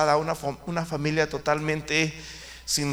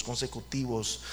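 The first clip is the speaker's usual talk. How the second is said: "consecutivos" repeated much softer and lower, fading out; soft echo; 4 semitones lower, 7 dB quieter than usual. Shown as a demonstration. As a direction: let "consecutivos" die away as an afterthought. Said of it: "eran años consecutivos".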